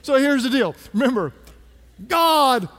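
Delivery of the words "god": preaching emphatically. Real, not acted. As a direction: proclaim it to the church. Sermon's main point.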